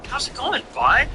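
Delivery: high, breezy imitation of the friend; lightly voiced friend. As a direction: toss it off like a chummy buddy. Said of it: "he's like".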